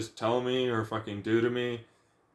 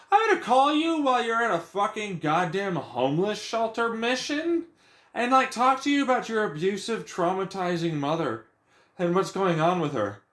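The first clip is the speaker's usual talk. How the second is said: dad parodied much higher, hammed-up; mock him pitched way up; 8 semitones higher than usual. Ranter mimics dad's phone call, high mocking parody.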